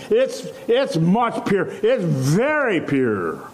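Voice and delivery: slow, deliberate, leaning on "very"; emphasized very pure. Shown as a demonstration. Preacher driving home the psalmist's point, slow emphasis. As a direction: drag out "very" in "It's very pure". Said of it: "He emphasizes".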